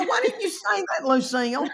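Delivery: high mock exasperation; exasperated to mama. Daughter scolding Mama over the word, high exasperated whine. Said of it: "I go".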